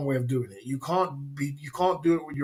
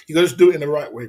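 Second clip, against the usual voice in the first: insistent; 8 dB louder, much faster than usual. Real, not acted. Insisting on the right way.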